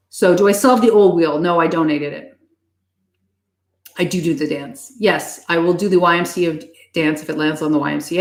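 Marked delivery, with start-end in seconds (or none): none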